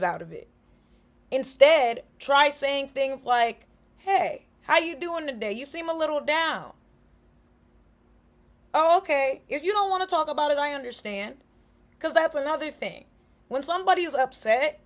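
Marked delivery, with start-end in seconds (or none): 4.0-11.4 gentle check-in. Shown as a demonstration. Showing how to gently ask someone who seems down. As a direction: ease into it like a kind friend.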